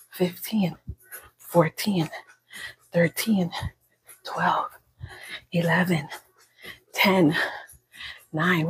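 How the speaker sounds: whispered counting. Real, not acted. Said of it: "Why am I whispering?".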